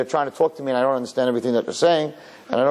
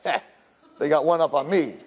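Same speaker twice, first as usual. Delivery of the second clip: rueful laugh; 2 semitones higher than usual. Retold or imitated. Laughing at himself.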